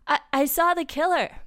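high, loud stammering fright; acted gasp of terror. A narrator's reading. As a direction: stammer it out, panicked. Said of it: "Boaz gasped".

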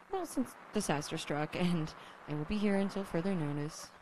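radio broadcast voice. Acted.

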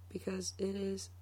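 breathy whispered payoff. Acted. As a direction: drop to a whisper. Whispered plug.

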